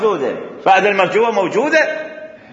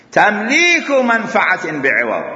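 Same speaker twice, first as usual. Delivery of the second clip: slow dictation; slower than usual. Shown as a demonstration. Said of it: "كلامنا الآن التعريف الثاني".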